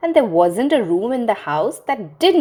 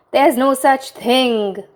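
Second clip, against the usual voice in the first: slow firm denial; 5 semitones higher, 4 dB louder, slower than usual. Acted. Mother starting to deny.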